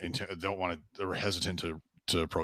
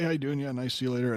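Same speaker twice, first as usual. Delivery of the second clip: higher-pitched friendly small talk; acting nice; 7 semitones higher than usual. Showing how to answer a stranger nicely, light and friendly. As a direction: imitate a breezy, pleasant hello and goodbye. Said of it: "you just act nice".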